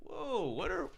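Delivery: high-pitched startled retort; alarmed retort. Retold or imitated. Bartender facing a customer holding a tray, high alarmed retort. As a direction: jump up high on the first word. Retelling standoff with angry customer.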